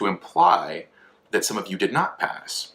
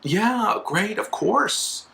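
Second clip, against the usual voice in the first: hollow enthusiasm; 13 semitones higher, much slower than usual. Retold or imitated. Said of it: "one of the people is like".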